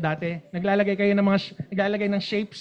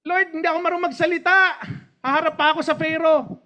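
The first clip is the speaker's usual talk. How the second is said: Moses' excuse; 6 semitones higher, faster than usual. Retold or imitated. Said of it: "excuse din ni Moses".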